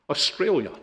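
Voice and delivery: offhand answer, light rise then drop; retold casual reply. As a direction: toss it out casually. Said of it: "He says casually".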